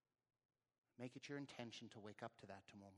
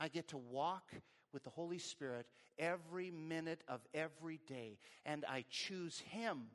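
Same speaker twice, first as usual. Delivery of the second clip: emphatic, raised pulpit delivery; fervent preaching; 3 semitones higher, 4 dB louder than usual. Real, not acted. Preacher urging congregation to walk with Holy Spirit, fervent. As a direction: proclaim it with conviction.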